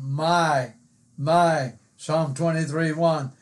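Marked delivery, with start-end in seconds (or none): 0.0-1.8 "my" set apart, said on its own; pause, then my once more with weight; emphatic MY. Shown as a demonstration. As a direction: linger on each my. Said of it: "I like that pronoun".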